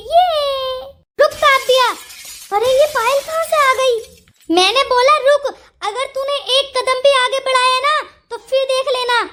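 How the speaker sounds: a sharp, commanding stop with a threat behind it; angry warning. Acted. Payal angrily stops Kavya from leaving with her bag. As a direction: order her to halt, then warn her. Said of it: "तू इतने गुस्से में क्यों नजर आ रही है".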